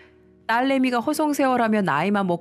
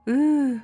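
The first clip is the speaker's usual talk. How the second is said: higher "eugh" of discomfort; a short, higher-pitched groan at the awkward thought; shudder of dread; 6 semitones higher than usual. Acted. Shudders at being left with father-in-law.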